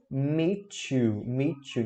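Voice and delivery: 'meet you' joined as 'mee-chu'; fuse T and Y in 'meet you' into ch; linked MEET YOU. Shown as a demonstration. Teacher modelling for learners, linked MEET YOU. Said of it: "nada de falar separado".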